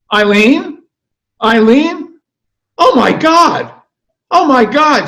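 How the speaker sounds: high, loud gushing shriek; Park Avenue woman shrieking oh my God; shrieking society lady. Acted. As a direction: squeal it like spotting an old friend across the street. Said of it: "she cries out real loud".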